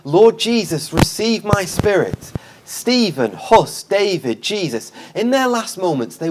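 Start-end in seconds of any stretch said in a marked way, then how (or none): 0.0-2.3 imitating a dying cry, higher and drawn out; mild retold cry. Preacher voices Stephen praying as he is stoned, mild cry. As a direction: retell a martyr's cry with some lift. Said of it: "Stephen cries out".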